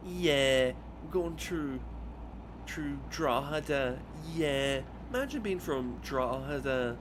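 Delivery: ape two Dublin mothers doing a bad accent; mocking Dublin accent. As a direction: Dublin accent, hammed-up and slow. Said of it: "So they were like".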